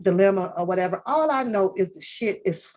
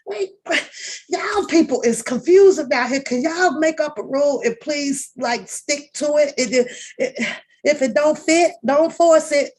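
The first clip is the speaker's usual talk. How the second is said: higher, louder exasperated plea; 7 semitones higher, 4 dB louder than usual. Real, not acted. Host pleading with the confused cast, loud and exasperated. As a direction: beg them to stick to a rule.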